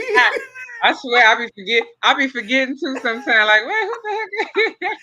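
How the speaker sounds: high, loud laughing admission. Real, not acted. Chef laughing that she forgets her own kids. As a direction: giggle at yourself.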